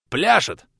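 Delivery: a boatman's full-chested holler; bellowed. A narrator's reading. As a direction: yell it out over the waves. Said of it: "проорал таинственный корабельщик".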